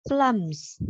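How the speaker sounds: Plums with lips popping the P, final S sounded; Plums, both ends articulated for a learner; clear first and last sounds. Shown as a demonstration. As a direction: press the lips, release a light puff on Plums. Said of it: "lưu ý cả âm đầu và âm cuối".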